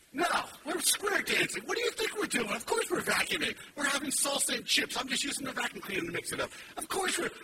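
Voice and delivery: high, loud mock-exasperated sarcasm; sarcastic retort. Dad answering his kid's dumb question, loud sarcasm.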